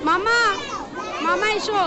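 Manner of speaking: high call across a crowd. Real, not acted. Calling someone over in crowd.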